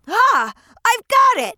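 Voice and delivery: bursting with the idea; sudden idea. Acted.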